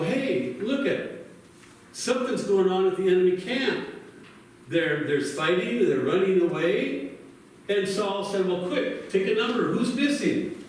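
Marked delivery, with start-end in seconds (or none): 0.0-7.1 lightly voiced soldiers calling out, higher; excited soldiers. Soldiers spot enemy camp fighting. 8.5-10.6 a hint of a worried king snapping orders; urgent king. Saul urgently counts his army.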